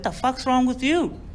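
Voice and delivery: high, slow disbelieving question; drawn-out retold incredulity; incredulous cousin. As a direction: act out a baffled cousin's demand. Cousin startled by window visitor.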